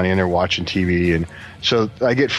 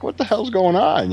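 higher-pitched retold alarm; retold panic; 10 semitones higher than usual. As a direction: act out being rattled, voice lifted. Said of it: "I was terrified".

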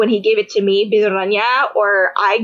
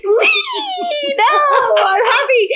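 high, laughing squeal easing into a happy claim; laughing high "wee" then a bright "I'm happy"; giddy drunk protest; 14 semitones higher, much slower than usual. Retold or imitated. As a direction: refuse to stop, drunk and delighted. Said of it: "And I'm like".

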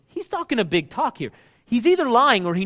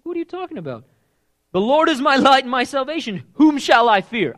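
higher, louder, full of swagger; with attitude; 7 semitones higher, 7 dB louder than usual. Retold or imitated. Preacher reading King David's boast with attitude. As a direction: defy anyone to scare him. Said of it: "You gotta read it with that".

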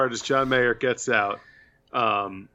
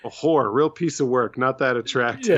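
put-on old lady voice; 2 semitones higher than usual. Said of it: "the old lady who says".

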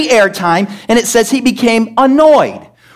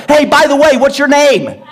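light, higher sarcastic chat with a laugh; mock polite question; 4 semitones higher than usual. Preacher mocking asking an intruder's name, sarcastic and light. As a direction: play it absurdly casual. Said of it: "I don't have authority over the intruder".

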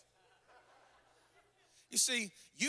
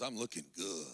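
very low, softer voice of a preening man; self-satisfied Samson; 4 dB quieter than usual. Acted. Preacher playing Samson fixing his comb-over, self-satisfied. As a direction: play a man quietly pleased with his looks. Voicing Samson admiring himself.

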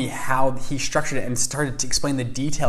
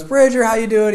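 higher, louder, booming friendly hello; hearty greeting; 10 semitones higher, 7 dB louder than usual. Retold or imitated. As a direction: greet a young guest with big welcome. Rich mentor greets him warmly.

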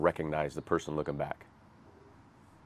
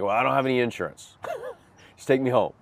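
put-on pleading drunk; 6 semitones higher, 3 dB louder, faster than usual. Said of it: "And I was like".

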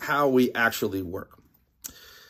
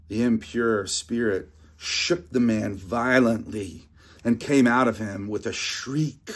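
measured, steady Bible reading voice; scripture reading; 3 semitones lower than usual. Acted. Pastor reads scripture to the church, measured reading. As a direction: read the passage to the congregation.

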